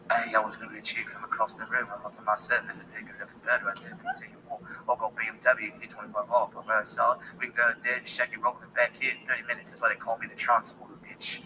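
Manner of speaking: put-on low South London British accent; a British soldier chats up a woman in a South London accent. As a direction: purr it in a low London geezer voice. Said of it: "that sexy British accent".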